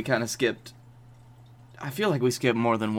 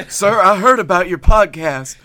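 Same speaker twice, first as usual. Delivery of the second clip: gruff cop voice, louder; tough guard voice; 5 semitones higher, 8 dB louder than usual. Acted. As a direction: play the menacing security guard. Playing the TSA agent.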